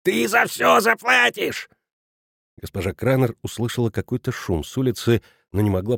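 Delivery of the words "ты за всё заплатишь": much higher, slow, menacing dwarf yell; hoarse yell. A narrator's reading. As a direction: threaten like a nightmare goblin. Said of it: "хрипло орал".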